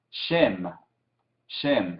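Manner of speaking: "shem" said low and clearly, twice; repeat after me. Shown as a demonstration. Teacher to class, modelling a word to repeat. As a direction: model "shem" for students to echo. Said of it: "digan después de mí".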